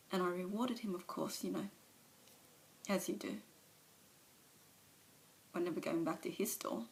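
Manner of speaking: an alcoholic owning up, subdued; Alice's confession. Acted. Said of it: "a monologue from one of, of her movies".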